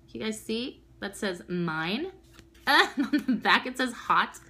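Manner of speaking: ordinary delivery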